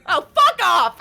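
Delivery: mock-annoyed outburst. Teased brother before smacking the other, laughing outburst. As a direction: throw it back in playful irritation.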